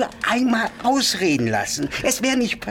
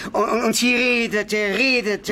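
crying; 4 semitones higher than usual. Acted. Confessing the killing, breaking down.

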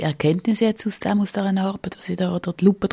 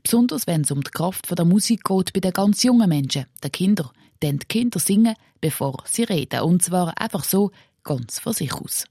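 measured radio-feature voice-over; scripted report narration. A narrator's reading. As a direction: read the script to listeners, clearly phrased.

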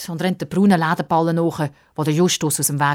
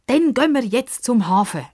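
higher-pitched, pushing impatience; impatient; 9 semitones higher than usual. A narrator's reading. Girl urging them to the harbour, impatient. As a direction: press to get going now. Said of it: "sagt Pippa ungeduldig".

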